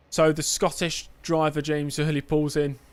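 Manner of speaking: light put-on Scottish accent, slowed; a casual Scottish lilt for the race intro. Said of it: "Don't know why I'm Scottish".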